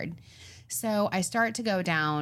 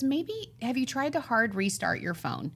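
tentative husband; 4 semitones higher than usual. Retold or imitated. Husband's tentative tech suggestion retold.

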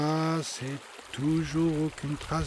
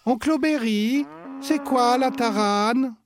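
put-on curious child; 10 semitones higher, 6 dB louder than usual. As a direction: ask with wide-eyed curiosity. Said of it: "children ask the uncle".

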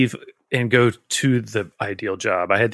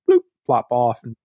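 laughing; faster than usual. Real, not acted. Hairs falling, laughing.

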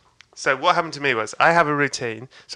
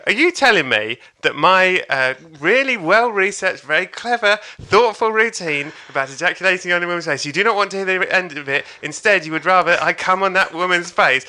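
higher-pitched, exasperated rhetorical question; mock incredulity; 4 semitones higher than usual. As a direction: spell out the absurd request in disbelief. Comedian incredulously answers the crowd.

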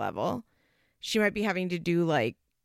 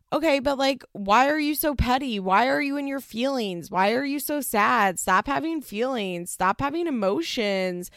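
mock nagging girlfriend; 5 semitones higher, 4 dB louder than usual. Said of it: "And she's like".

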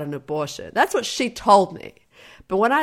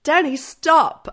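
higher, insistent plea; imitating protesting girlfriend; 8 semitones higher, 5 dB louder, slower than usual. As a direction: act out a girl telling her boyfriend off. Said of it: "say it in my accent".

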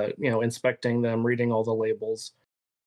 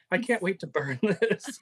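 mock gushing quote; 6 semitones higher than usual.

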